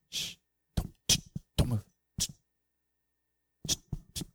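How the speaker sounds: soft, whispered shushing; hushing. Real, not acted. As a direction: hush a whole room into silence. Hushing the congregation into silence.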